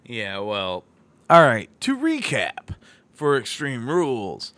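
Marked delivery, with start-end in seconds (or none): 1.3-4.5 announcer voice. Pretend. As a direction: ring announcer calling the card. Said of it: "How's that for my announcer voice?".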